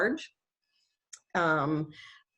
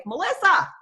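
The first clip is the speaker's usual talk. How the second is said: yelling a name; 8 semitones higher, 3 dB louder than usual. Retold or imitated. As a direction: call out her name loud and high. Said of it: "he yells to his wife".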